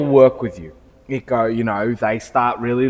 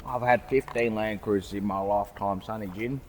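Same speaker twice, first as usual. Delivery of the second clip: put-on old Aussie bloke giving his spiel; put-on broad Aussie storyteller; Aussie accent; 4 semitones lower, 11 dB quieter than usual. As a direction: ramble on in an Aussie customer's accent. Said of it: "They give you the whole spiel".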